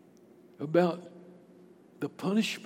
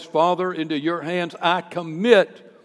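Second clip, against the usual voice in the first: mildly raised, firm calling out; retold loud prayer, moderately projected; 4 dB louder than usual. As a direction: call it out firmly, with a pause before the end. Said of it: "called out with a loud voice".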